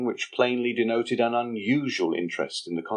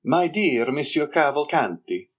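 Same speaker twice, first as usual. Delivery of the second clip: higher young man's voice, mocking and slow; sly young Andrea; 5 semitones higher, 3 dB louder than usual. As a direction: needle the Major with sly contempt. Andrea addresses the Major.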